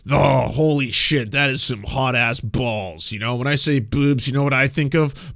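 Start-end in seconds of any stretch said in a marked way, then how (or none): 0.1-3.1 mocking straight dude. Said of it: "being like".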